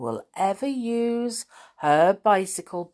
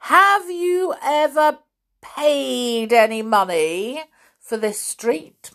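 loud, higher demanding question; angry demand; 6 semitones higher, 4 dB louder than usual. A narrator's reading. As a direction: demand it in her face. Bully interrogates girl.

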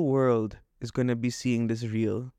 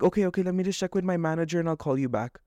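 mocking the agent; 4 semitones higher, faster than usual. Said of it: "And then she's like".

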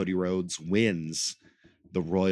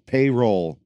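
grand entrance announcement; 4 semitones higher, 7 dB louder than usual. Pretend. Announcing himself.

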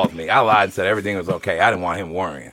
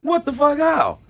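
shocked shout. Retold or imitated. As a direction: imitate the pimp yelling in disbelief. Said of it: "So he goes".

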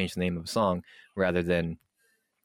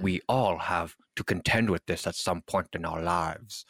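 mock professional statement. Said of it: "Yes, professional".

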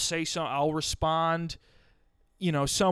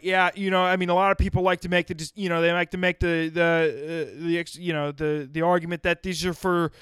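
1 dad voice; 4 dB louder than usual. Retold or imitated. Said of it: "he's like".

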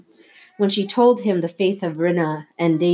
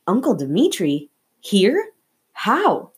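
stunned disbelief; 2 semitones higher, slower than usual. Acted. Boy stunned by uncle.

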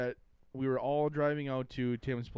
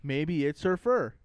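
loud, slow cartoon line; big stretched-out quote; 6 dB louder, slower than usual. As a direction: draw it out loudly like a cartoon character. Quoting cartoon scene.

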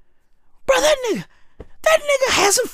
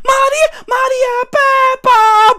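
slow, loud, higher wail; mock wail; 4 semitones higher, 4 dB louder, slower than usual. Real, not acted. Wailing the woman's name, mock grief.

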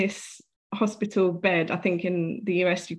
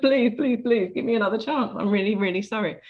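retold begging; 2 semitones higher, faster than usual. Begging to go back to life.

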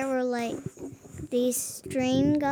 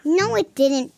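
louder mock British voice; British accent; 3 semitones higher, 7 dB louder than usual. Shown as a demonstration. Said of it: "That sounds like a British".

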